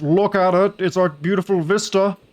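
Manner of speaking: high, loud and thrilled; excited. Real, not acted. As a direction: gush over the view. Excited streamer showing game vista.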